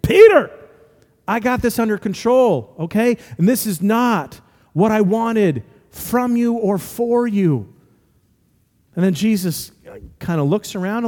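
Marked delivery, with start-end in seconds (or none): 0.0-0.5 Jesus. Acted. 1.3-7.7 mildly exasperated, higher-pitched reprimand; Jesus. Acted.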